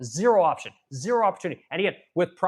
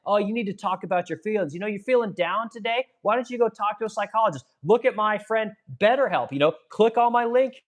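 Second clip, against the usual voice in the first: higher, sarcastic, salesman-style pitch to men; mock a smarmy therapy ad, pitched higher and sneering; 5 semitones higher than usual. Mocking what men are told about therapy, higher sarcastic pitch. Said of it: "We told men".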